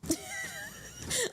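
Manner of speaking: a very high breathless giggle; high squealing laugh. Real, not acted. Laughs at corset fit.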